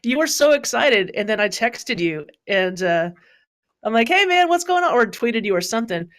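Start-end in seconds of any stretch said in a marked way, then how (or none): 4.1-4.9 mock cheerful greeting. Quotes his own cheerful text.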